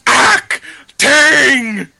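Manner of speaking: hammed-up sobbing, very slow; fake crying. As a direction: wail it like bad melodrama. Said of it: "I'm acting!".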